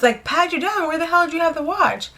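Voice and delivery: acted-out astonished question; retold incredulity. Retold disbelief at seeing the watch.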